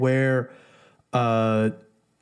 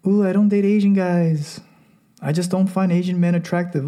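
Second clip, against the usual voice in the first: put-on higher girly voice of an Asian woman turning down Asian men; mock dismissive woman; 4 semitones higher than usual. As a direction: imitate a woman flatly ruling out Asian men. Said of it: "women with these racial preferences that say".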